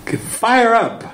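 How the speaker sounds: high, shouted rally cry; cheering call. Retold or imitated. Lady in the back pipes up, high cheering shout. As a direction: rouse the room like a cheerleader. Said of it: "She keeps saying".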